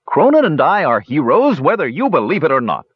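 high-pitched defiant boast; defiant outburst. A narrator's reading. Shouting kender continues his defiant boast.

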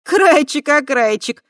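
high, loud singsong teasing; mock the boy's name, loudly amused; teasing snort. Tai loudly teasing the boy by his surname. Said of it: "хмыкнула Тай".

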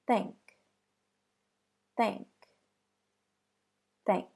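"Thank" with a clear unvoiced th, tongue between teeth; "Thank" with air hissing over the tongue tip; unvoiced TH demo. Shown as a demonstration. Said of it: "let's hear some examples".

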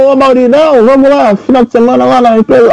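high-pitched imitation. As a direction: put on the con man's voice. Imitating con man talking to Mauri.

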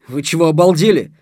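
loud, indignant question. A narrator's reading. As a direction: protest loudly, taken aback. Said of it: "возмутился он".

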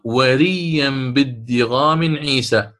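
slow chanted line, بالدغام leaned on; verse recitation. Shown as a demonstration. Teacher quotes the poem line, chanted slowly.

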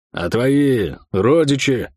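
slow, sneering question; smirking. Acted. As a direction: lean on it with a smirk. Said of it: "произнёс с усмешкой".

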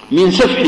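سفح said with a plain light س, not emphatic ص; سفح بالسين وليس بالصاد. Shown as a demonstration. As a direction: say من سفح with a thin sin, not sad. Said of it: "بالسين".

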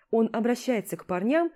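ordinary delivery, nothing marked

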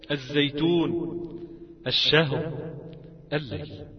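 word-by-word demo, each first consonant after the article doubled, as in "الثواب"; assimilated lam. Shown as a demonstration. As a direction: read each word deliberately, lam silent, next letter held as in "الدين". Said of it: "أدغمت اللام فيه".

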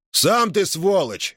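high, slow furious comeback; enraged retort. A narrator's reading. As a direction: hurl the insult back. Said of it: "взъярился Федот". (взбешённый ответ, высоко и медленно)

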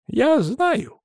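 high-pitched, smiling reply. A narrator's reading. Old man answers his granddaughter, smiling. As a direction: say it through a smile, pitched well up. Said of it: "улыбнулся старик".

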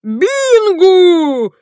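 high, loud exclamation; a loud, high cry. Acted. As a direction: blurt it out in alarm. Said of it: "воскликнул сэр Освальд".

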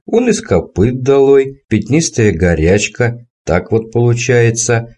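lightly voiced gleeful old man. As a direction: savour every word like a sly old man. Old man relishes the tale.

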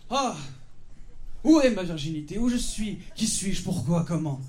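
overacted confusion, question after question; mock melodrama. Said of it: "je vais vous jouer une scène". (mélodrame surjoué, perdu)

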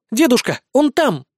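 squealing. Acted. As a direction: squeal over the ruins. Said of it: "визжит Ольви".

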